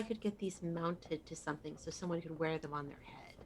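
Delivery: hushed conspiratorial whisper. Acted. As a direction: lean in and whisper it. Secretive request to barkeep.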